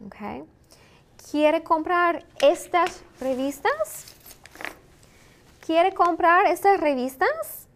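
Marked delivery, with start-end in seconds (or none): 1.2-4.1 slow question with rising end; slow model question. Shown as a demonstration. Teacher asking learners about buying magazines, slow and deliberate. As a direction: space the words out for learners, higher-pitched.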